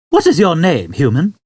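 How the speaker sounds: put-on old man. Old man explaining to Arthur, high and unconcerned. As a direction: explain it matter-of-factly.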